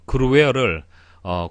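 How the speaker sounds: normal talking voice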